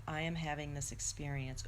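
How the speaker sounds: sit tall and name it gently; calm and grounded. Shown as a demonstration. Teacher shows viewers a grounded, calm voice. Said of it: "see how my voice changed?".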